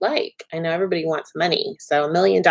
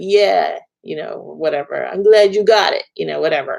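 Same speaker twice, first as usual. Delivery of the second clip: clumsy, laid-on, bad put-on Brooklyn accent; 2 semitones lower than usual. Speaker voicing an eBay seller's reply to her thank-you note, bad Gus imitation, Brooklyn accent. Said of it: "That was my bad imitation".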